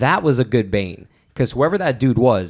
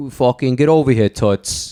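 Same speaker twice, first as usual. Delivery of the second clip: a hint of a gruff New York Batman; lightly voiced Noo Yawk tough; New York tough guy. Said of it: "if Gotham was actually New York".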